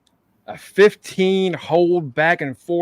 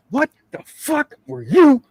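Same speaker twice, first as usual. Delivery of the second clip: higher, slow mock scolding; a parent with a shoe raised; mock angry parent; 9 semitones higher, 4 dB louder, slower than usual. Andre Chase pictured as a parent scolding a kid, mock scolding. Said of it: "take off his shoe".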